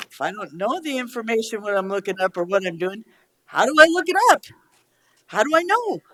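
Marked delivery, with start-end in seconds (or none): 3.4-6.0 frustrated outburst. Real, not acted. Exasperated commissioner demands answers.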